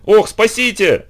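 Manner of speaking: high and slow, drawn-out cry for help; panicked plea. A narrator's reading. Aunt begging for help from the fleas, slow wail. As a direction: beg to be saved in a dramatic wail. В отчаянии завопила тётя.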